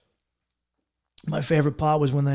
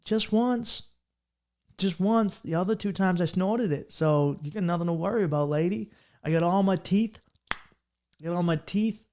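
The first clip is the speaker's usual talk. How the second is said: higher, lightly voiced proud Florida tweaker; 3 semitones higher, 3 dB quieter than usual. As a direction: brag it like a toothy redneck, a bit higher. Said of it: "And I go".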